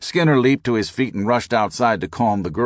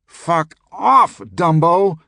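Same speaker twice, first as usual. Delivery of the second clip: very high, louder furious scream; 10 semitones higher, 7 dB louder, much slower than usual. A narrator's reading. Skinner screams at the narrator waving a stick, very high. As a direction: scream it at him. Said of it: "he screamed".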